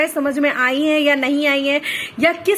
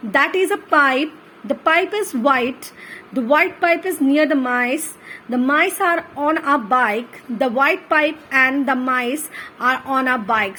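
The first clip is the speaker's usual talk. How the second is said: put-on very slow, word by word, like dictating to a child; slow reading aloud for children; 2 semitones lower, much slower than usual. Shown as a demonstration. Teacher reading sentences for kids to copy, slow and clear. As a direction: read each word out carefully and slowly.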